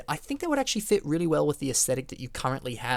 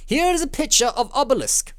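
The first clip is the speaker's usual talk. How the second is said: much higher, put-on announcer flourish; mock presenting; 13 semitones higher, 6 dB louder than usual. Host showing viewers a picture, mock grand. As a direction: present it with playful pomp.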